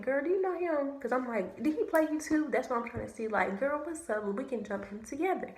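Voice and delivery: a touch of mock sisterly sass; high girly messaging. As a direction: pitch it up like texting a new girlfriend. Voicing herself messaging the girl.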